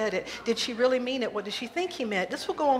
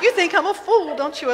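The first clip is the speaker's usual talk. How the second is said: distressed plea; 9 semitones higher, 10 dB louder than usual. Acted. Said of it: "Elaine says".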